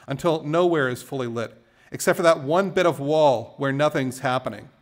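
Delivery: measured, emphatic poetry recital; poem reading. Acted. Poet reads Hopper poem to a crowd, measured recital. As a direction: recite it phrase by phrase, leaning on key words.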